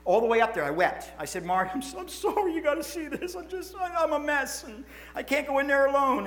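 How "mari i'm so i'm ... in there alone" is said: higher, tearful broken voice retelling the plea; retold weeping. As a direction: relive the tears asking Mari to come. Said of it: "I weep, I weep".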